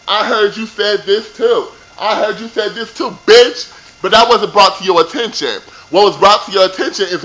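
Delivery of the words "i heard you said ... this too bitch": mocking quote. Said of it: "started going off on Kate".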